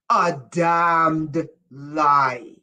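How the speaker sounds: "damned" dragged out slowly and hit hard, pitch low; heavy stress. Shown as a demonstration. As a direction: lean on "damned lie" slowly. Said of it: "Not a lie".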